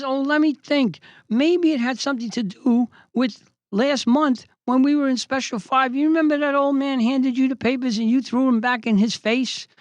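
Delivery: high-pitched mock pondering; pointed, high sarcastic reminder. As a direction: needle him with pretend innocence.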